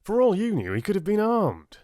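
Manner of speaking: officer still yelling at the prince. Acted. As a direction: keep bawling him out. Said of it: "he yelled at Richard".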